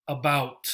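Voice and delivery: About. con schwa débil y acento en bout; stress on second syllable. Shown as a demonstration. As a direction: golpea la segunda sílaba de About. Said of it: "This second syllable gets the stress".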